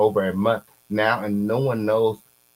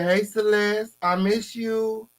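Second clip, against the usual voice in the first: high, slow mock voice of the sender; mocking quote; 11 semitones higher, slower than usual. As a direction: say it in a much higher teasing voice. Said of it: "He said".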